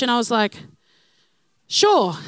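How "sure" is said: a bold, louder, higher sure; mock-confident reply to the tourist; overconfident sure. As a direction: bluff your way in with one cocky word. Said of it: "like this".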